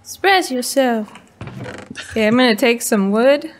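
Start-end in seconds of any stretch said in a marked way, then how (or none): 0.0-1.1 unenthusiastic. Real, not acted. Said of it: "Very unenthusiastic".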